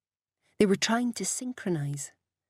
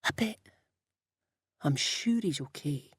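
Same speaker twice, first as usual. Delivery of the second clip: hushed, softened bedtime reply; whispered; 2 semitones lower, 4 dB quieter than usual. A narrator's reading. Alex and Brian talking in bed, hushed whisper. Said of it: "waited for the next backdraft and whispered".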